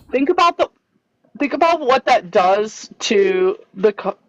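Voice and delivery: hiccuping mid-sentence; hiccups. Real, not acted. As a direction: speak through the hiccups. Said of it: "I have the hiccups".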